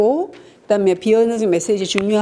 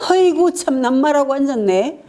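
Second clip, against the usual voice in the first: high scoffing jab, with a laugh; a mocking defensive retort in a fight; 6 semitones higher than usual. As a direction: scoff back at the spouse mockingly. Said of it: "방어는".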